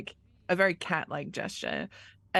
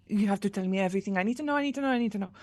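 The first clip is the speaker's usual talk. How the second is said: fast, breathless insistence, rising midway; urgent demand; much faster than usual. Acted. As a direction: demand answers in an eager, repetitive rush. Eager character demands the full account.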